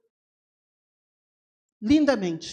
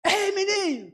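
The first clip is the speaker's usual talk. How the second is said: put-on high call to the kids, pitched up; high calling yell; 7 semitones higher than usual. Calling kids at the skate park, high shout. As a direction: shout for the kids' attention. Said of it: "Por isso que eu falo um pouco alto".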